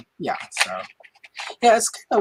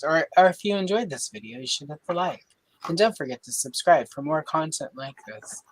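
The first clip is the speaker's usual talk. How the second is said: smooth, polished announcer read; newscaster voice. Shown as a demonstration. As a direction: deliver it like a TV news anchor. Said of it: "if I do it that way in that voice".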